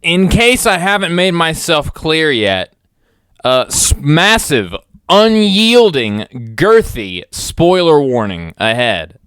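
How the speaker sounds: very loud, drawn-out warning; hammed-up booming announcer; booming announcement. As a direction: blast the warning out, stretching each word. Mock-grave spoiler announcement, very loud.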